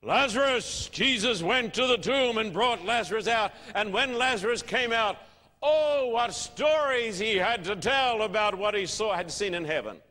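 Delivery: a hint of a gushing TV preacher; mock TV preacher. Mocking a TV preacher's Lazarus story, lightly gushing. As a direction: lightly send up the showman preacher. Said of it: "here is this preacher, he's saying".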